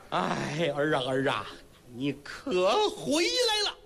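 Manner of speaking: put-on an old mother sobbing her son home; crying mother. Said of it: "放声痛哭".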